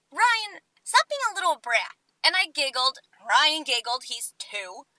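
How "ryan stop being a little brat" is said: teasing scold. Retold or imitated. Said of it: "the mistake of saying".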